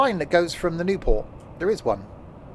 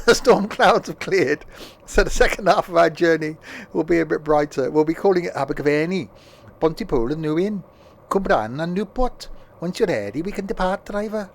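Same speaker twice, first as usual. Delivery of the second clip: train announcer voice. Acted. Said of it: "It's like he was invoiced".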